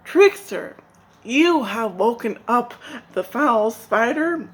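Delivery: loud, high rebuke; old crow scolding Spider. Acted. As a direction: tell the trickster off sharply.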